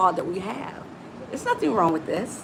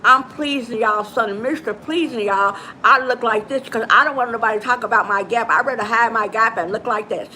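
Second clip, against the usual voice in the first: talking while hiding her gap; lightly voiced mock self hiding a gap; a hint of a masked version of herself. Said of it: "try to talk like this".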